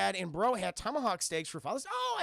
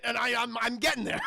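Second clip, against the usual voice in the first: laughing; 5 semitones higher, 5 dB louder than usual. Real, not acted. Laughing at own bit.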